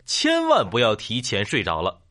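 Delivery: insistent final warning, stress on 千万; emphatic repeated warning. Acted. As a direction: lean hard on 千万, then drop through the rest. Third repeat, 千万 drawn out high.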